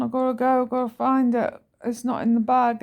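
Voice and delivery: high, loud and hurried to her son; urgent. Retold or imitated. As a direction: rush the words, desperate to find it. Urgently tells son she must go.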